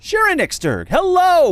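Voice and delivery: high, loud mock villain shout; hammed-up booming shout. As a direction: belt out the name like a showman. Shouting back villain greeting.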